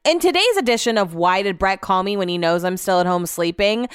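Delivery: mock announcer. Mock show-segment title announcement.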